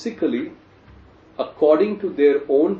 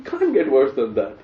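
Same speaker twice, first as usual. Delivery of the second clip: dry sarcastic punchline; lightly mock-appalled. Real, not acted. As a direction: repeat it as pointed irony. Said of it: "Sarcastically speaking".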